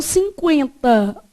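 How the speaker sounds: "cinquenta" with the u sounded as a w glide; U pronounced. Shown as a demonstration. Teacher contrasts sounds for students, "cinquenta" with a gliding u. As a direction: say "cinquenta" as sin-KWEN-ta. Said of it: "o som era de U o quê?".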